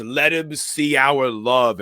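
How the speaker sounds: high, loud and slow possessed line; hammed-up demonic whisper-like plea drawn out; eerie possessed voice. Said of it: "She says".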